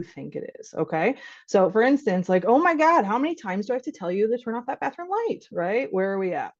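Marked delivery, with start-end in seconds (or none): 2.5-5.4 mock fed-up parent repeating herself; exasperated parent. Parent nagging a child about the bathroom light, exasperated.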